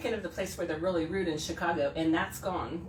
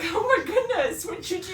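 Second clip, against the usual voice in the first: gullible alarm; 12 semitones higher, 5 dB louder than usual. Retold or imitated. Retelling falling for the friend's joke, high alarm. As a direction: fall for it completely. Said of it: "I was like".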